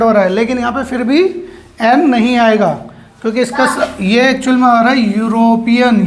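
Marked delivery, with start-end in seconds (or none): 5.2-6.1 यूरोपियन begun with a clear "y" glide; initial y sound. Shown as a demonstration. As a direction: say यूरोपियन so the opening "yu" stands out. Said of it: "या से शुरू हो रहा है".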